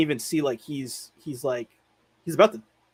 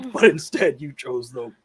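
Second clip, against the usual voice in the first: villain quote; 6 dB louder than usual. Retold or imitated. Friend doing the villain's line for his co-host, stressing pain. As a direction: play the menacing wizard, lingering on pain. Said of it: "the emphasis from Christopher Lee on the word pain".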